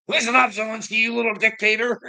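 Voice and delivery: mock scolding. Lecturing Zelensky in mock speech.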